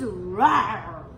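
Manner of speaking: slow, drawn-out roar; lion roar. Shown as a demonstration. Teacher showing what lion says, long playful roar. Animal sounds for children.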